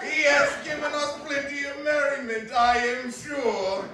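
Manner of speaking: high, loud and slowed through laughter; laughing. Acted. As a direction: still laughing as you speak. Nephew laughing toast.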